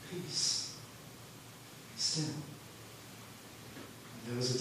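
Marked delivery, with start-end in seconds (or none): 0.1-2.2 breathy hush, no voice behind it; calm the sea with a whisper; whispered command. Acted. Jesus hushing the stormy sea, soft whispered command. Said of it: "he said to the sea".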